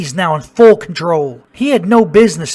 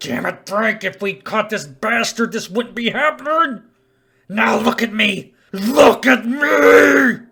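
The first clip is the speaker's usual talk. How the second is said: rabid, out-of-control fury, higher pitch; 4 semitones higher than usual. In a story, the infected partner snaps at Frank: rabid, out-of-control rage. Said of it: "the rabies now in full control. / Saliva dropped from his mouth, and he looked like he was drenched in sweat. / His voice had come from behind me, / Saliva dropped from his mouth".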